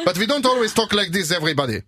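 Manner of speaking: high German rant starting to come down; German accent. Shown as a demonstration. German orator excuses himself to everybody, high accented speech. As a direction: keep the mock German orator going. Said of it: "Så pratar alla tyskar".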